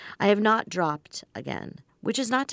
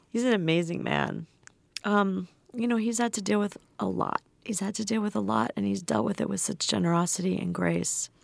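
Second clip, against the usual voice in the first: after crying; 2 semitones higher than usual. Real, not acted. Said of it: "I'm a little teary now".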